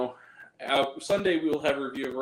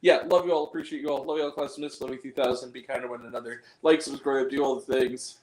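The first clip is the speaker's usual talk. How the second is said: perfunctory sign-off. Shown as a demonstration. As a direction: toss off the sign-off like a chore. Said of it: "I don't have to go through all over".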